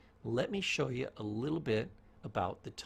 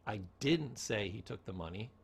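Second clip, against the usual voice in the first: didn't stressed; 4 semitones lower than usual. Shown as a demonstration. Teacher demonstrating tone, stress on didn't. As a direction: hit didn't. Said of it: "change the tone".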